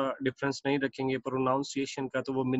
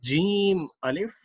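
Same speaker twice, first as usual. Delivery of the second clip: slow reading; 4 semitones higher, 3 dB louder, slower than usual. Shown as a demonstration. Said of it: "next पढ़ते हैं जीम अलिफ".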